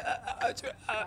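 quiet imitation of a stammer; stuck on one syllable, mock stutter. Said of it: "you got a stuttering problem".

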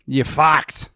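a hint of a blunt coach; blunt coach quote. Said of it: "He's just been honest with him".

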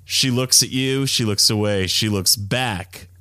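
slow, breathy, seductive delivery. Retold or imitated. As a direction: breathe the words out slowly. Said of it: "in a breathy voice".

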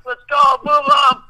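shouted hurry-up order, pitched high; urgent shout. Retold or imitated. Hospital staff hurrying the injured skater inside, shouting. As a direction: bark it like a medic rushing a stretcher.

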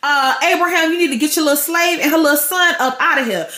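lightly acted sassy telling-off; a touch of indignant wife; indignant Sarah. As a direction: put them in their place as an offended mother. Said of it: "And she's just like".

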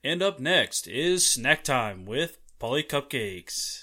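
slow announcer read; newscaster voice. Pretend. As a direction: introduce the next segment like a radio host. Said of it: "What can you do in newscaster voice".

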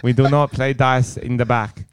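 put-on improvised Asian-accented server; mock Asian accent. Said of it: "I don't know what accent that was".

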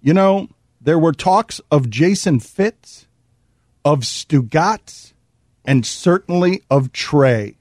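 low, measured reading with long pauses; deliberate quote reading. Acted. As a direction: read the quote out gravely, piece by piece. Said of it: "here's a quote from Golic".

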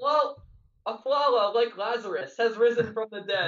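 lightly imitated rhyming sports call; Clyde's commentary. Quoting a broadcaster's line to co-hosts, lightly imitated commentary. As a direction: quote a commentator's flourish, name repeated. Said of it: "He said".

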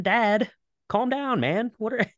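high-pitched, hammed-up plea to a father; mock pleading son. Luke begging Darth Vader to come back, mock pleading. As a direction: plead in a high, comically put-on voice.

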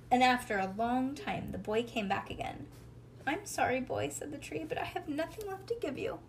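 animated bedtime story, lilting character lines; storybook reading to a child. A narrator's reading. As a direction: read a picture book aloud, lifting the tree's lines. Reads a storybook aloud to child.

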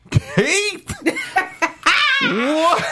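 high shocked shout of a name. Retold or imitated. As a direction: shriek the name in disbelief. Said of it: "I was like".

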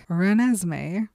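RENESMEE said slowly with a rising end; tentative suggestion. Retold or imitated. Bella proposing RENESMEE as the baby name, slow and tentative. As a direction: float RENESMEE slowly, as if testing it. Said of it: "And I was thinking".

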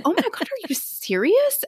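high-pitched mock disbelief; retold shock. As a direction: replay a stunned, disbelieving reaction. Retelling shock at neighbour's news.

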